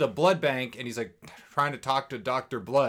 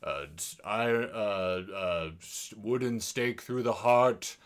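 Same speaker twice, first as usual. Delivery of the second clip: a lightly lowered, slow, hammed-up villain; dramatic deep villain voice; 4 semitones lower, 4 dB quieter, slower than usual. Podcaster mocking the vampire villain, mild hammed-up deep voice. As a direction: ham up the ancient vampire listing his weaknesses. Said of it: "why you're doing that, like, dramatic voice".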